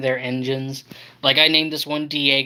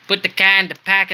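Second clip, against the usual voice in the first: put-on amateur Boston accent, a bit higher; botched Boston accent; 4 semitones higher, 4 dB louder than usual. Train fan imitating Porter from Boston, botched Boston accent. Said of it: "did a really botched Boston accent".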